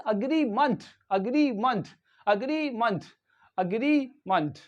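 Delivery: "agreement" ending in munt, with a reduced vowel; corrected pronunciation. Shown as a demonstration. Teacher corrects own slip in agreement, careful pronunciation. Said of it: "sorry, not meant".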